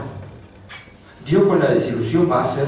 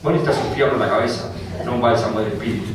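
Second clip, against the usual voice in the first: fast blunt retort; 4 semitones lower, faster than usual. Real, not acted.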